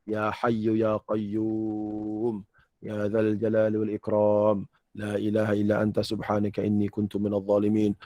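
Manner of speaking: low, quick-moving sample recitation of a supplication; sample prayer. Shown as a demonstration. Teacher showing jemaah how the prayer goes, sample recitation. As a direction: recite it lightly as an example.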